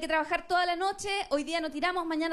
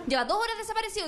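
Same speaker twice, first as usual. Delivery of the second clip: mock panic; 5 semitones higher, faster than usual. Calling his mother in panic.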